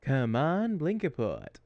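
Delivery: loud robot voice attempt; chirpy little robot, loud; Claptrap voice. Shown as a demonstration. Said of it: "How's that?".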